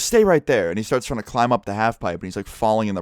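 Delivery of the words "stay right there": louder, higher barked order; mock shouted command; imitated angry yell. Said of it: "I see him yelling and screaming".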